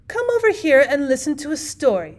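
calling aunt. A narrator's reading. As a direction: summon the kids across the carriage. Aunt calls children over.

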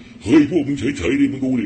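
a big brother telling the others to shut up and watch. Retold or imitated. Scolding the younger guys to keep still and watch, loud and stern. Hushing excited youngsters, retold.

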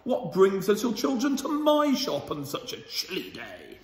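a lightly voiced jolly shopkeeper, chuckling; pleased butcher. Butcher welcoming lost children, lightly voiced, chuckling. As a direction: greet the children with a hint of fake welcome. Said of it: "he was very pleased to see them".

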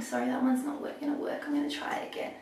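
soft whisper to herself; whispered aside. Real, not acted. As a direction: drop to a whisper, muttering. Curl failed, aside to herself.

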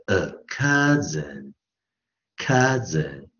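COUSIN said slowly with "uh" first; vowel demo. Shown as a demonstration. Teacher explaining the O is silent, vowel demo. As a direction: stretch the "uh" in "cousin". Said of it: "直接念U的呃".

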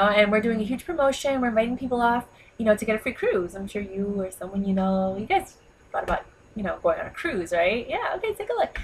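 chirpy pitch to a shop owner; sales pitch. Retold or imitated. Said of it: "I'm like".

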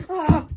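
loud high squeal of delight; excited shriek. Real, not acted. Opening the box for viewers, a thrilled squeal. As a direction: let out a sharp thrilled cry.

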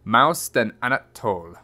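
measured picture-book reading; story narration. A narrator's reading. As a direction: read it like a children's storybook. Reads a picture book aloud.

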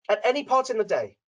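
ordinary talk

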